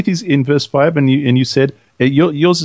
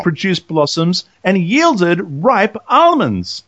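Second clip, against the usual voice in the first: measured reading growing slower and more emphatic; scripture reading, building; 3 semitones higher than usual. Acted. Co-host reads out the budding rod miracle, slowing with emphasis.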